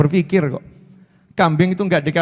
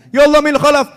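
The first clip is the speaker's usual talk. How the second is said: seru keras dan tinggi; teriak; 6 semitones higher, 5 dB louder than usual. Retold or imitated. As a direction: berteriak memanggil seperti panik. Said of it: "Dikira teriaknya ini". (ulama berteriak keras)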